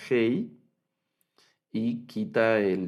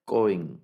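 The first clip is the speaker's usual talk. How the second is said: Cohen whispered, stress on CO; whispered model Cohen, stressed CO; model word, whispered. Shown as a demonstration. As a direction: breathe Cohen with first-syllable stress. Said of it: "el acento en este sustantivo es en la primera sílaba".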